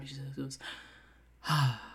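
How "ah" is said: relieved breath out. Acted. Character takes a nice breath out before panicking, sighing. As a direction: let a long breath out. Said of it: "he takes a nice breath out".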